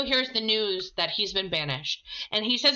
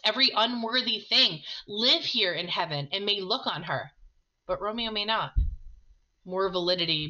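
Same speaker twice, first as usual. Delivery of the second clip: dramatic reading. Acted. Romeo pleading with the friar, impassioned reading. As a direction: let Romeo's despair build through the speech. Reads Romeo's despairing speech.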